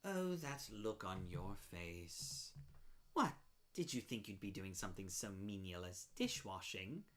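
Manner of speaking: a lightly voiced sweet-but-sinister seller; a hint of a sugary villain; menacing sweet spider. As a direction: purr the threat politely.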